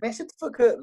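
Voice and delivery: retold hood girls' comeback. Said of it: "And they'd be like".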